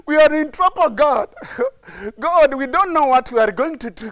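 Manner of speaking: hammed-up wailing to God; mock crying. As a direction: imitate a man whining in trouble.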